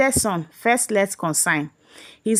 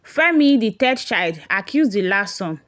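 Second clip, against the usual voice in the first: sharp raised call of a name; accusing call. Acted. Brother confronting Bola's brother, raised voice.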